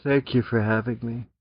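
sultry voice. Acted. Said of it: "you gotta do a sultry voice".

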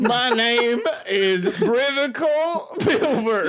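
put-on old prospector. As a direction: play a goofy old gold miner. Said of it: "descending into a prospector".

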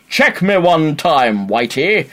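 put-on light Jamaican accent, slow and cool; a lightly voiced Jamaican yardie swagger; mock Jamaican accent. Fast Show yardie in a light Jamaican accent. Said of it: "walks in past them and goes".

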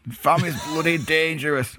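put-on shaky stab at West Country accent, laughing; retry the West Country accent, cracking up; West Country attempt. Co-host retries fan post, wobbly West Country accent. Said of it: "Where's your West Country accent?".

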